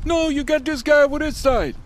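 very high, squeaky panicked voice; squeaky cartoon voice. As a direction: pitch way up like a frightened cartoon guy. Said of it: "let's say it's for some, some acting outside".

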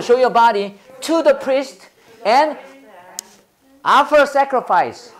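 very slow, chunk by chunk; slow chunked reading. Shown as a demonstration. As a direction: read it out in slow chunks for repeating. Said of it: "저 청크로". (덩어리로 끊어 천천히 읽기)

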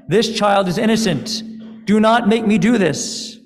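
desperate father pleading upward. Acted. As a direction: beg for the child's life. Abraham pleads with the sky.

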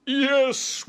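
high, loud cheer; excited yes. A narrator's reading. Friends confirming Spot's presents, high cheer. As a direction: call it out high and gleeful.

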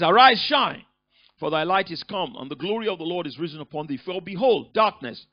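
loud, ringing pulpit proclamation; proclaiming scripture. Acted. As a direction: call it out like a herald. Preacher reads Isaiah sixty.

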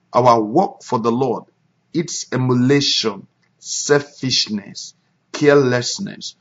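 measured devotional reading; reading aloud a devotional. Shown as a demonstration. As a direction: read it out with weight to the church. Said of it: "I read".

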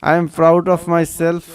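very slow, each word set apart; slow, careful dictation of I am proud of myself; slow teaching read. Shown as a demonstration. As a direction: read it out slowly for learners to copy. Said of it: "আমি নিজে কিনে গর্বিত".

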